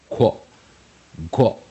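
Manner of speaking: "quack" cut down to a rounded "kwo"; QU sound. Shown as a demonstration. Teacher showing what Q plus U says, "quack" as just "kwo". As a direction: isolate the QU of "quack" as kw. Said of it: "Q跟U通常一定是念".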